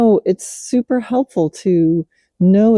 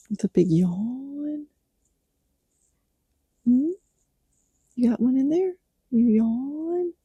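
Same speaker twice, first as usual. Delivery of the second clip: soft coaxing; 9 semitones higher, 7 dB quieter than usual. Real, not acted. Gently coaxing the horse to yawn.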